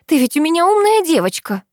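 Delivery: high, gentle coaxing voice; tender coaxing. A narrator's reading. Mother soothing her crying daughter, tender coaxing. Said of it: "говорит она ласково".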